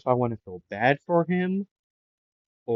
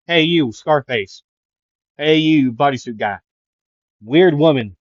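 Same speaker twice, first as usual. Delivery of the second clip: calling out rudely; 3 semitones higher, 7 dB louder than usual. Pretend. Calling people by nicknames.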